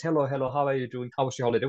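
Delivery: light, quick everyday greeting; casual small talk. Retold or imitated. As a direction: toss it off like polite chit-chat. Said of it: "if we speak like that".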